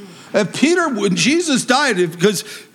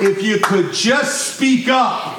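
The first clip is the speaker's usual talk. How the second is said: laughing mock request; 2 semitones higher, slower than usual. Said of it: "Nobody's ever said".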